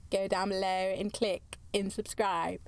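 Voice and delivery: put-on playful slide into a British accent. Podcaster joking about subscribing, in a put-on British accent. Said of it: "keep going into a British accent".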